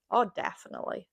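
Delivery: "definitely" with a back, open first vowel; own habitual "definitely". Shown as a demonstration. Showing own habit, "definitely" from back in throat. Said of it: "I do say that often".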